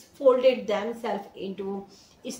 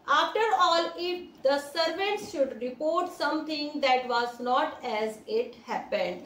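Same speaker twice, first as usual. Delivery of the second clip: slow, careful read-aloud of the English text; deliberate classroom story reading; much slower than usual. A narrator's reading. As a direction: read each word out slowly for the class.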